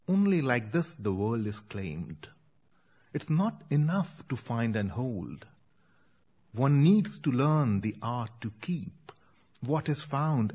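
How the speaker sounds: steady metrical recital, lines given room; poem reading. Acted. Poet reads her rhymed poem about her children's finds, measured recital. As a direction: read it evenly, letting the rhymes land.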